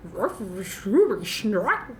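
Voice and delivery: very slow, stretched Scooby Snack; slow Scooby-Doo voice. Shown as a demonstration. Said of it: "I don't know what that was".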